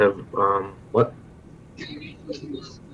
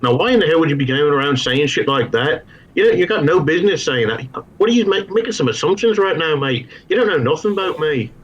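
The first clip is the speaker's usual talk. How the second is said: mock-tough Liverpool scolding, a bit higher; Scouse accent attempt; 6 semitones higher than usual. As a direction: square up to him in a shaky Scouse accent. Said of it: "I wanted to try and get in the Scouse accent".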